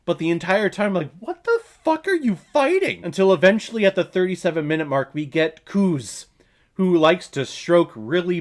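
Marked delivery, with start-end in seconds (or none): 1.2-3.1 high-pitched, incredulous demand; mock-baffled outburst, pitched way up; exasperated disbelief. Viewer baffled by the hero's fight, exasperated disbelief. Acted exasperated question while watching.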